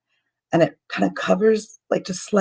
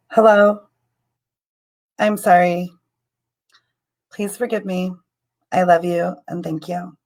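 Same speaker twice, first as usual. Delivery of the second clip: prayer recitation. Shown as a demonstration. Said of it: "I'm just gonna say that a couple times".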